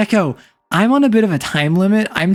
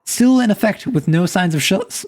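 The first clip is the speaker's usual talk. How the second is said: put-on old-timey newspaper reporter voice; news reporter read; 2 semitones higher than usual. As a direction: announce it like a period news reporter. Reads a mock news report.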